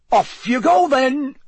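high, loud and cheery send-off; bright. A narrator's reading. Bagman sends the four patrollers off, brightly. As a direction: send them off brightly, voice pitched right up. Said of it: "said Bagman brightly".

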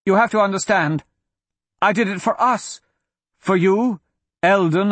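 put-on high, strained confession to a child; pleading confession. A narrator's reading. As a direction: confess and beg her to understand.

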